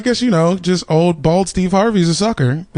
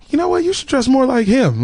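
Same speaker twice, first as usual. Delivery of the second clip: high mom voice; 8 semitones higher than usual. Retold or imitated. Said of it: "she was like".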